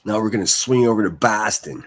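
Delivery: loud, badly faked Boston accent; terrible Boston accent. Host hands over to a Boston report in a terrible Boston accent. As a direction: put on a bad Boston accent, punching it out. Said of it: "I know that's a terrible accent".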